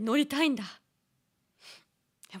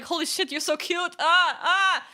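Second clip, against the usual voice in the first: gushing; 8 semitones higher, 7 dB louder than usual. Retold or imitated. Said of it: "was more like".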